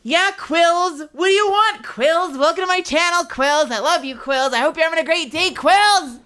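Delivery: loud, high mock-cheery yelling; over-the-top screamed stream welcome; screaming. Real, not acted. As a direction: belt the greetings at the chat. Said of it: "that's why I'm screaming".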